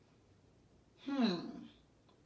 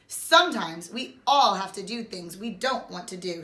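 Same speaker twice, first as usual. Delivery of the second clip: gentle; 3 semitones lower than usual. Acted. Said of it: "she told him gently".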